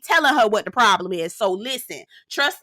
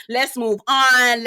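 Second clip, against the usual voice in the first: slow "Let's move on" with a laugh, a bit louder; 3 dB louder, much slower than usual. Retold or imitated. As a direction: laugh through it, slowly. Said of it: "Talene is like".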